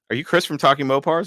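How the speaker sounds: high, eager fan question; a fan recognizing the host at SEMA; excited fan. Retold or imitated. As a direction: play the starstruck stranger. Fan quoted approaching him.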